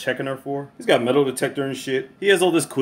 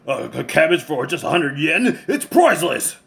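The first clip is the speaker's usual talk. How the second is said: dramatic about vegetables. Retold or imitated. Tatsu gushing over cheap cabbage.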